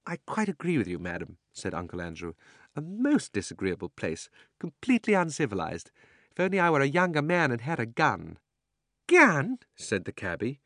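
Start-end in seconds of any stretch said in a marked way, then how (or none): 0.1-1.4 a pompous uncle agreeing eagerly; fussy old gentleman. Acted. Uncle Andrew fawns. 2.8-8.4 higher, louder snooty complaint; a blustering old man sniffing at the place; pompous old gentleman. Acted. Uncle Andrew complains. 9.1-9.6 surprised cabby. Acted. The cabby reacts.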